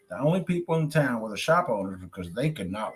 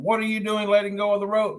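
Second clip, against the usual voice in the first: yelling; 8 semitones higher than usual. Acted. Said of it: "Harry yelled down to him".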